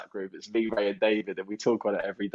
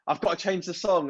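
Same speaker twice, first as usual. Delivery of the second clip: higher-pitched mock panic; retold night terror; 8 semitones higher than usual. DJ dreaming he is still in the club, panicky. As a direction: act out sleep-talking alarm. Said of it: "having a bit of a night terror".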